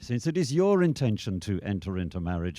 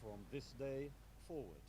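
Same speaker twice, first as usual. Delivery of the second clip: whispered prompt; 24 dB quieter than usual. Real, not acted. Officiant prompting under breath.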